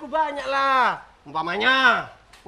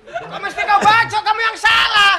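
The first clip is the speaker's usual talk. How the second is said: laughing protest; 7 semitones higher, 5 dB louder than usual. Acted. Protesting friend's threat, laughing.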